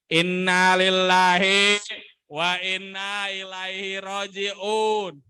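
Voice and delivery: very slow, drawn-out solemn announcement; sad news delivery. Shown as a demonstration. Trainer shows students how to announce sad news, solemn and slow. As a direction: stretch each phrase in solemn condolence. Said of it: "mendeliver informasi sedih".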